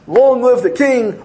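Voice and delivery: high, stretched-out parade cheer; mock scream. Kids marching through the streets, mock scream. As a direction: call it out slow, loud and high. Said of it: "they're marching up and down, screaming".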